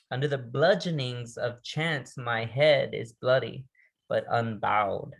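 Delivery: slow, deliberate quoted line; measured recitation; poem recital. Acted. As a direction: lean into each word like a vow.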